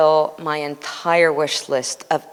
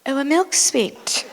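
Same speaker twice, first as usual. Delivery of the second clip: amused surprise; 10 semitones higher than usual. Retold or imitated.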